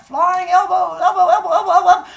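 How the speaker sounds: high, loud repeated yell; wrestling war cry. Acted. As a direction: holler it like a kid leaping onto his brother. Acting monsters wrestling noisily off mountains.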